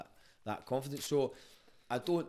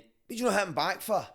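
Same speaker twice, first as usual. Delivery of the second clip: loud, high angry father; angry dad; 9 semitones higher, 8 dB louder than usual. Retold or imitated. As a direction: demand it like a furious dad. Dad scolds son.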